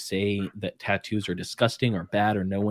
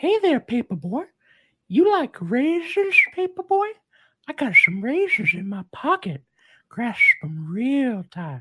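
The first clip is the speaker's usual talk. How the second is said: very high cartoon voice swooping around; 4 dB louder than usual. Doing an impression for another speaker: Herbert the Pervert voice. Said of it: "Herbert the Pervert from Family Guy".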